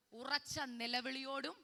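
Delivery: slow, measured verse reading; slow recitation for repeating. Shown as a demonstration. Preacher has congregation repeat the verse, slow recitation. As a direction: stretch the words so a crowd can follow.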